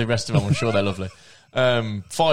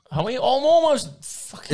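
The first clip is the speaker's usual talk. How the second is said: high squeal; 13 semitones higher, 3 dB louder than usual. Real, not acted. Sudden high outburst.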